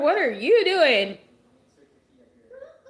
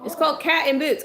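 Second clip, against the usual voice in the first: higher, firm insistence on Cat in Boots; firm correction; 4 semitones higher than usual. Real, not acted. Mom correcting her son's movie title, firm. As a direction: set him straight firmly.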